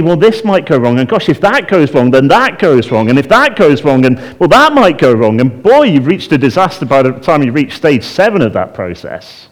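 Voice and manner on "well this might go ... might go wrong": mock spiralling worry. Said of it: "If you're anything like me".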